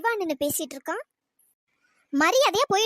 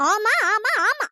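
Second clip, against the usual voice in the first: snapped, louder yes yes; loud angry yes; 7 dB louder, much slower than usual. Acted. Girl to the boy asking if he ruins her peace, loud angry yes. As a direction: hammer the yes at him. Acted quarrel, emphatic yes.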